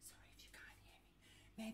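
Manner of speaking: hushed, dropping into a whisper; too soft. Pretend. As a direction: apologize almost inaudibly, teasing. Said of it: "Sorry if I'm too soft".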